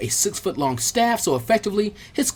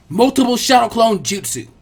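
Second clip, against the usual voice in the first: higher, louder jutsu call; battle cry; 5 semitones higher, 5 dB louder than usual. Acted. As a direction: announce the technique with force. Ninja casting technique again.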